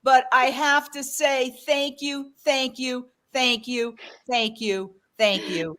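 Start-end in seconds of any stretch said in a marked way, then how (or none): 1.7-5.8 heartfelt thanks. Real, not acted. Host thanks generous donor over and over, fading softly. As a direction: let the thanks sink down gently.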